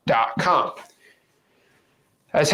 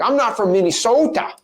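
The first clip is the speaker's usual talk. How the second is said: higher-pitched mock Minnesota accent; imitated Minnesota accent; 6 semitones higher than usual. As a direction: put on a touch of Minnesotan. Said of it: "if I don't talk like this".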